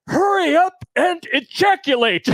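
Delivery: high yelled call from outside; hallway yell. Retold or imitated. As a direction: call out through a door. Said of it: "I hear".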